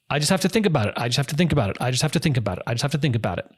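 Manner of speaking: same flat phrase repeated, fading slightly each time; broken record repeat. Shown as a demonstration. Demo line for a bully in a negotiation, repeated calmly like a broken record. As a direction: say it on a loop and give nothing. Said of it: "put on broken record".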